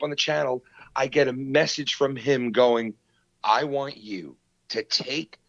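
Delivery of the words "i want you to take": lightly voiced stern father laying down the law; mock tough guy. Podcaster retells a message demanding a video come down, mock tough guy. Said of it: "he sounded like a tough guy".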